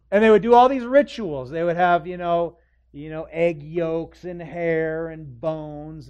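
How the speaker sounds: high, loud scornful telling; mocking loud build. Preacher ridiculing exorcism rituals.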